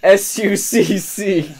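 very slow letter by letter; spelling out. Shown as a demonstration. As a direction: spell each letter slowly. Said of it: "it's spelled suck".

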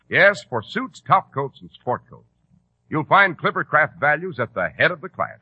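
lively salesman's pitch; ad read. Acted. Announcer pitching Clippercraft suits to listeners, lively ad read.

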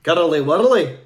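loud, put-on Edinburgh accent; rolled-r Scottish accent, belted out. Shown as a demonstration. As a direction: show off an Edinburgh accent on request. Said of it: "Say that in a, a Edinburgh accent".

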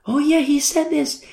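high, slow voice of sudden recall; dawning realization. Retold or imitated. Disciples recalling what Jesus told them, dawning realization. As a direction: act out the penny dropping. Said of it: "then they realize".

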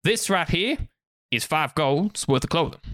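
southern salesman naming his price; southern accent. Acted. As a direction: present the goods with a Southern twang.

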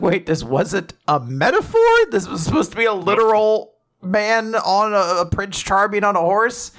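mildly shocked, pitch climbing. Retold or imitated. Layla seeing a literal prince on horseback, mildly shocked. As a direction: act out a touch of disbelief. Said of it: "of course, is very shocked".

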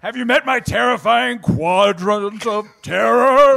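slow hammy villain threat; menacing villain voice. Pretend. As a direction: drag it out like a campy tyrant. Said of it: "Hi, I'm Sigourney Weaver".

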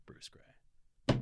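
breathy whispered signature; whispered sign-off. Acted. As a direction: whisper the name like a reveal. Signing off the email.

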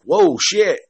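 high little gasp of shock; mock startle. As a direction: act out being jolted by the scare. Retold own startle at jump scare.

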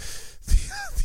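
shrill taunting laugh; high mocking cackle.

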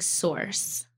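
SOURCE drawn out slowly with a clear American R; slow, careful American SOURCE; clarifying pronunciation. Shown as a demonstration. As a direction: spell out SOURCE by ear, slow and rhotic. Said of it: "You're saying source".

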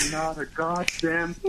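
slow, drawn-out punchline; joke punchline. Acted. Guest answering the wiper riddle, slow drawn-out delivery. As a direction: stretch each word out slowly. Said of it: "and you go".

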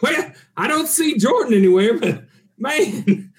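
pirate voice. Acted. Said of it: "I guess my voice is a little bit funny".

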